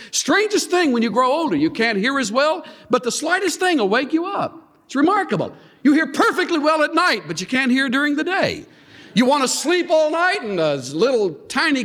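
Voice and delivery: high, amused and laughing. Real, not acted. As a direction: chuckle through it, marvelling. Amused about sleep in old age.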